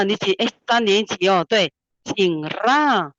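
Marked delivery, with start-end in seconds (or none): 2.0-3.1 slow 紧啦 with a trilled r; x0.5 slow 紧啦, r rolled. Shown as a demonstration. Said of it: "你很会弹舌哦".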